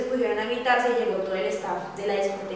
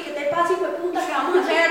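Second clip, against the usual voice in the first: higher, louder mock yell at the man; retold angry yell; 6 semitones higher, 4 dB louder than usual. Retelling how the friend confronted the creep, a mock angry yell. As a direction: play the friend squaring up to him, hammed-up. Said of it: "Ella se puso a pelear".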